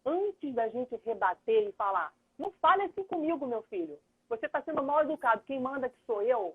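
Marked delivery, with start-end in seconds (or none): 2.4-6.5 scolding parent. Retold or imitated. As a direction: play a stern parent telling off a child. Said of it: "e abaixa o tom da sua voz".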